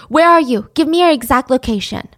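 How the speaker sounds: urgent hope breaking through; excited. Retold or imitated. Al on the phone with his missing sister-in-law, excited. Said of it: "couldn't even contain his excitement".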